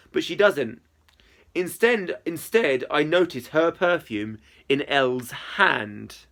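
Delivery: clear, expressive audiobook reading; story narration. A narrator's reading. Narrator telling of a chat with Izzy, story narration. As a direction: read the story aloud with lively phrasing.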